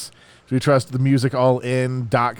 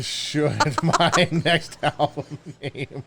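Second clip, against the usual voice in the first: doddering grandpa repeating the question; old man voice; much slower than usual. Acted. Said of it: "gonna be hard to do an old man voice".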